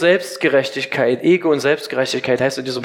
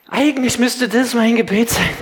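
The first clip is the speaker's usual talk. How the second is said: unvoiced whisper, higher; whispered thought; 5 semitones higher than usual. Preacher voicing the swindler's secret thought in a whisper. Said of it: "Der Gauner weiß".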